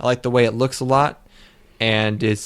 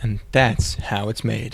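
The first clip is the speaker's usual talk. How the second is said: slow TV narrator sign-off; 3 dB quieter, slower than usual. Pretend. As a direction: mimic a documentary narrator closing line. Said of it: "I don't think that's how they say it".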